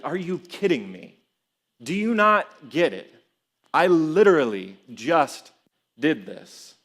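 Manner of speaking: acted exasperation, punched words with pauses; exasperated. Preacher imagining himself scolding the clueless disciples, exasperated. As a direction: let them have it in mock disbelief. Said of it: "really easy to get frustrated with the disciples".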